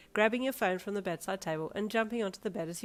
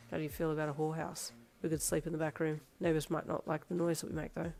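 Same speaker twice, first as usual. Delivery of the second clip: leer; 2 semitones lower, 4 dB quieter than usual. Acted. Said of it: "Darby leered".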